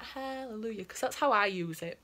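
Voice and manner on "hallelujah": softly intoned mock praise; praising hallelujah. Acting out a praying-hands emoji, mock praise. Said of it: "is it praying? Like, is it going like".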